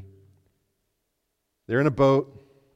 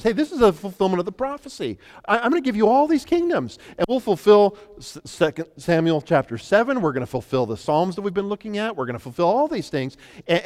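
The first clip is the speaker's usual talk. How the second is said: smooth tempter; 7 semitones higher, 4 dB louder than usual. Acted. Satan tempting Jesus, voiced.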